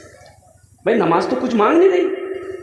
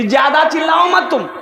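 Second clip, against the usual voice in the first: half-laughing yell at the calf, higher; scolding shout; 6 semitones higher than usual. Retold or imitated. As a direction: shout at the bleating calf, grinning. Farmer scolds the crying calf. (हँसते हुए डाँटना)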